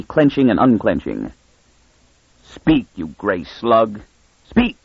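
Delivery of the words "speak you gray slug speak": furious. Acted. Stetton ordering Miras furiously.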